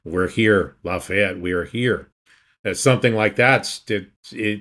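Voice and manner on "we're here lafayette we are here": ordinary delivery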